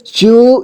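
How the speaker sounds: चू with the ू stressed and held; stressed long ू. Shown as a demonstration. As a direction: lean on चू and hold it. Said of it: "थोड़ा इसे जोर देकर पढ़ेंगे". (चू को जोर देकर लंबा)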